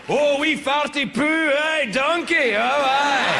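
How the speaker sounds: hammed-up Scottish Shrek accent; Shrek impression. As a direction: ham up an ogre talking to Donkey. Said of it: "the time you lived in the swamp with Shrek".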